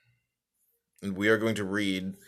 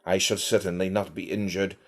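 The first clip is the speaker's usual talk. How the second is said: put-on a light, slightly raised English accent, read steadily. Reading Meditations to stream listeners in a lightly put-on English accent. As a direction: read the old text as an Englishman, lightly done. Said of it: "in an English voice".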